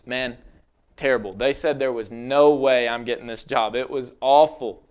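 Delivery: low, deflated disappointment; dejected. Acted. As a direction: sag like the interview went badly. Acted failed job interview reply.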